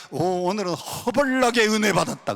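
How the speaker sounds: playful touch of Jeolla speech; Jeolla dialect. Retold or imitated. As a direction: exclaim like a Jeolla local. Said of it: "전라도 사람들은 말하기를".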